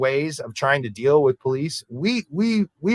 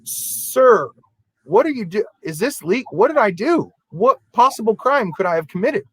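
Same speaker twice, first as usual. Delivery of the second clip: higher, incredulous mock protest; baffled protest; 7 semitones higher than usual. Clerk questioning the deputy arresting him, higher baffled protest. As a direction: play the stunned clerk pleading for a reason. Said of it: "And I'm like".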